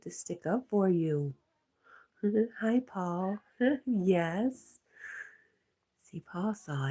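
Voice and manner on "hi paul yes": high, loud and breaking into laughs; laughing greeting. Real, not acted. Streamer delighted Paul spotted it too, laughing. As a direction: greet them through giggles.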